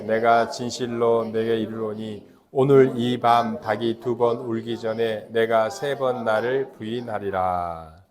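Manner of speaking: usual speaking voice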